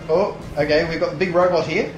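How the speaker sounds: normal talking voice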